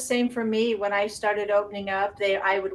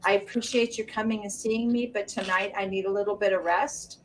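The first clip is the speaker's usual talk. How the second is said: gentle. Retold or imitated. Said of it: "I would just gently say".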